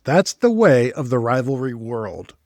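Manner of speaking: slow, deliberate articulation; careful tongue-twister repeat. Shown as a demonstration. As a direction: pick through the tricky words slowly.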